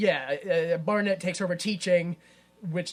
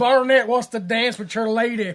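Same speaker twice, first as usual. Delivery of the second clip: lightly voiced henchman, louder and higher; big henchman; 4 semitones higher, 7 dB louder than usual. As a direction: announce it as a goofy go-between, half laughing. Voices the large henchman asking.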